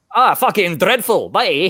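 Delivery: attempted, put-on Scottish accent. Asked how his scottish accent is, answering in an attempted scottish accent. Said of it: "How's your Scottish accent".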